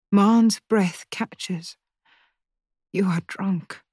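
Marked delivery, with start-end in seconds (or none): 2.9-3.8 hushed, breathy accusation; a tense whispered reproach. Acted. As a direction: whisper it at her drunk mother. Daughter confronting drunk mother.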